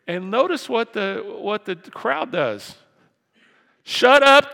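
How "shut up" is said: very high, loud mock shout; crowd's yell. Crowd turning on the beggar, loud high yell. Acting the crowd's sudden switch.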